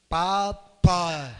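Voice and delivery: put-on baby's first word. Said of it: "o neném acabou de nascer".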